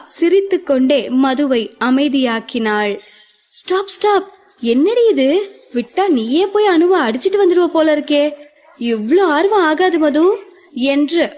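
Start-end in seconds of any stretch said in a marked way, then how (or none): 3.5-10.2 playful mocking, pitched up; teasing. Avanthika teases Madhu for her eagerness, mockingly. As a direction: tease her friend for being too keen. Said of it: "கிண்டலாக பேசவும்".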